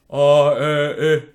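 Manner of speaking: slack vowels. Shown as a demonstration. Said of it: "the voice is still doing the same thing".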